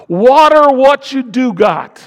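high, loud, slow command; forceful preacher's shout. Real, not acted. Preacher urging congregation to nurture what they have, shouted. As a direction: belt it out, stretching each word. Climax of exhortation, then repeated calmly.

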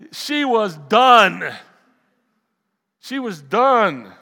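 DONE hit loud and drawn out; slow, loud, emphatic "done"; emphatic punchline. Acted. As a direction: land hard on "done", stretching it. Emphatic comic punchline, repeated.

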